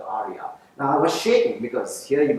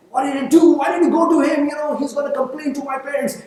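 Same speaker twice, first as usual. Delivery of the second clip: much higher, louder, frightened protest; panicked girl; 13 semitones higher, 9 dB louder, faster than usual. Retold or imitated. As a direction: voice a scared, upset young girl. Sonia upset, in tears.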